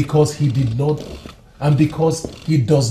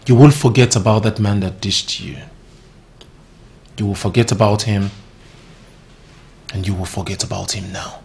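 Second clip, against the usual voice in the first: firm, insistent command; emphatic; 5 semitones lower than usual. Acted. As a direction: stress on "will", each clause driven home. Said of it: "Now I am going to be very emphatic".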